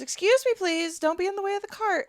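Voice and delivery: mock officious scolding. Stewardess to passenger blocking the cart, mock scolding. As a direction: imitate a curt stewardess telling someone off.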